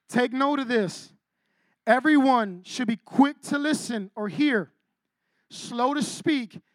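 slow, measured scripture read; slow solemn reading of the verse. Acted. Reads scripture slowly.

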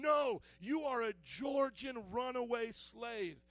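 slow, emphatic southern drawl; southern accent. Acted. White bad guy beating Solomon, slow southern accent. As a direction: put down the captive in a southern drawl. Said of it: "I wanna do the southern accent".

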